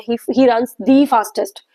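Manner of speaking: each word laid out slowly for students; slow example reading. Shown as a demonstration. Teacher reading an example sentence slowly to students. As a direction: read it out slowly, like dictation. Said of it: "teacher repeats the example slowly".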